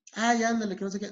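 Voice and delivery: insistent pleading. Acted. Pushy smoker trying to tire the other out, insistent. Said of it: "esta persona que está siendo insistente".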